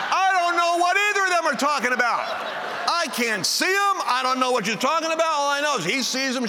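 high, loud exasperated wail; baffled protest. Acted. Husband who sees no spirits to the audience, loud baffled protest. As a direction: protest at full pitch, stretching the words.

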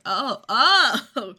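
a loud, delighted gasp of recognition, playfully voiced horse; suddenly remembering an old friend; excited recognition.

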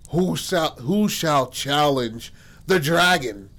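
lightly hammed-up dragon challenger; slow, grand mock challenge; theatrical challenge. Character booms a challenge as dragon.

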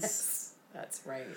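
a soft, breathless whisper of yes; whispered agreement. Real, not acted. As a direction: whisper it like a shared secret. Goth in-joke about the shade.

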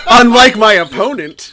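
laughing through a snide punchline. Pretend. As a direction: snicker while adding the jab. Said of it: "mock addition to quote".

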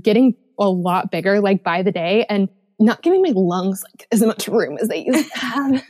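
slightly out of breath; breathless from pregnancy; huffing and puffing. Real, not acted. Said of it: "if I sound like I'm huffing and puffing a little bit".

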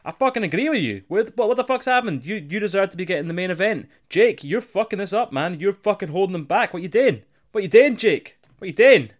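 high, loud mock rant building to a yell; Sting losing it. Sting rants at Jake, building to an angry yell. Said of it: "Sting loses it and goes".

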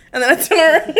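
breaking into laughter mid-sentence; laughing. Real, not acted. Storyteller cracking up as she describes turning around, laughing. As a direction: crack up on the last word.

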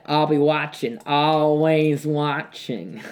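slow drawn-out "always watching"; deadpan, slow menacing drawl; Roz impression. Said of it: "Roz, everything she says".

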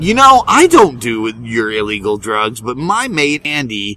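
played-up American Boston accent. Comic retelling his reply to a drug seller, slight Boston accent. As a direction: lay on a touch of Boston accent. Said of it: "Boston accent again?".

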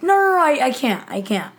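retold flustered no, starting high and loud; mock panicked refusal. Monk refuses to talk to Julie, mock flustered. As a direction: play at balking, then settle down.

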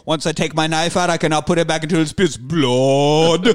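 lightly put-on movie villain voice; mock menace, swelling loud on the last word; Chong Li. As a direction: recite it as a hammed-up fighter's threat. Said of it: "Chong Li in this movie".

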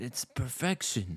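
quoted cartoon critic. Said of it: "but he's like".

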